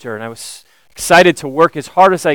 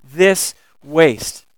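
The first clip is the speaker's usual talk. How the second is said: quiet disbelief; much slower than usual. Retold or imitated. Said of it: "why would they ask such a question".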